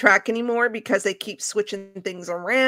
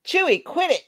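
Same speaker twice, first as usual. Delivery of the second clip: scolding the dog; 10 semitones higher, faster than usual. Real, not acted. Scolding the dog mid-podcast.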